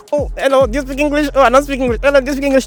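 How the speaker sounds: high-pitched mock tourist voice; clueless clown. Foreigner asking strangers for English like a clown, mocking high voice. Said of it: "like a clown".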